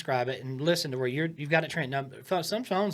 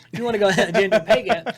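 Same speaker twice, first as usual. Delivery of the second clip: loud, higher put-on comic delivery; comic voice inflection; 5 semitones higher, 10 dB louder than usual. Shown as a demonstration. Coach demonstrating a callback to a comic, voice inflection. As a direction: punch GENDER PAY GAP high and loud for a laugh. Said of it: "change my voice".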